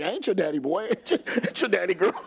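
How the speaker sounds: teasing "ain't your daddy", laughing through it; playful fatherly brush-off with a laugh; half-laughing retort; laughing mock dad line. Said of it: "but I'm like".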